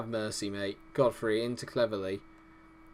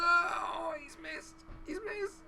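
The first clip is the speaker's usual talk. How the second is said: anguished disbelief; 4 dB quieter, much slower than usual. Real, not acted. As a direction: shout that leaps to a high wail as the chance goes. Chance missed at last second.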